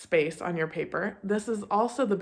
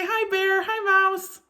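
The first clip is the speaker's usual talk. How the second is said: cheerful greeting; 9 semitones higher, slower than usual. Shown as a demonstration.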